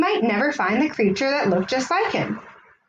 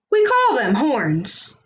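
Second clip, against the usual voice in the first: slow, gently explaining unicorn voice; patient unicorn; slower than usual. Acted. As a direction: lay it out slowly like a kind teacher. Unicorn teaches Kelp.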